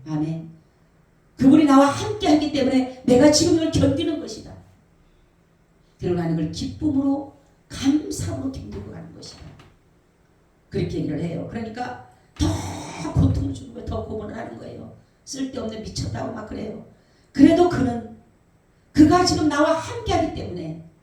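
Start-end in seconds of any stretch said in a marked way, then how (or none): 1.4-9.5 loud, high declaration of faith; impassioned retold testimony, raised voice; defiant testimony. Acted testimony of tortured pastor. 17.3-20.9 loud, high, insistent declaration; impassioned retold defiance; unyielding testimony. Pastor answers his torturers, retold.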